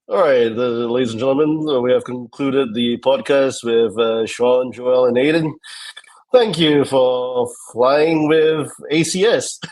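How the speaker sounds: slow, loud captain's sign-off; playing the airline captain on the PA; pilot voice. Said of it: "can you do, like, the pilot voice?".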